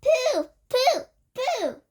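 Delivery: high, loud, shrill cry of disgust. A narrator's reading. Witch audience crying out in disgust at children. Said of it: "cried the audience".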